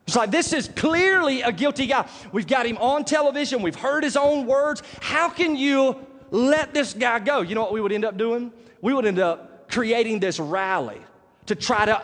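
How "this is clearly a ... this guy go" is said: outraged. Retold or imitated. Outraged crowd reaction retold.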